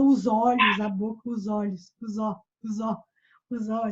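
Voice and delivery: "os olhos" run together as one word; linked plural. Shown as a demonstration. Teacher showing Portuguese linking, "os olhos" joined up. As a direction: slide the s of "os" into "olhos". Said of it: "É por isso que a gente fala".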